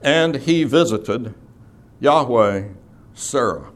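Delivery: slow, word-by-word reading with pauses between. Shown as a demonstration. Teacher showing a class Hebrew word order, word for word. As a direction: lay out each word separately, slowly. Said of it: "translated word for word".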